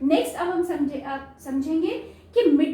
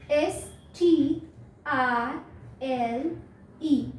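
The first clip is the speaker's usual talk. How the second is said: slow letter spelling; 2 semitones lower, much slower than usual. Shown as a demonstration. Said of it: "in words को मैं आपको इस तरह से लिख के बताती हूँ".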